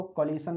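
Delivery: collision said as कोलिशन, with an unvoiced s or sh; mispronounced कोलिशन. Shown as a demonstration. Teacher warns students, showing कोलिशन without the z sound. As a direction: put a hissless "shun" ending on कोलिशन. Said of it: "इसको कोलिशन नहीं पढ़ते".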